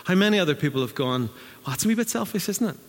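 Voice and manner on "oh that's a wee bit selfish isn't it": mock indignant. Mock complaint from passengers.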